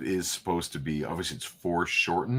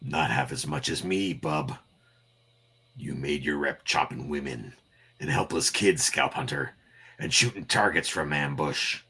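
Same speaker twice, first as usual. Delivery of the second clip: lower, growly challenge; gruff tough guy; 5 semitones lower, 3 dB quieter than usual. Acted. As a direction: taunt low and steady. Voices Wolverine.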